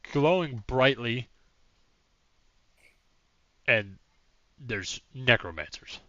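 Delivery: a flustered mayor ticking off troubles; disbelieving mayor. Acted. Mayor listing events in disbelief.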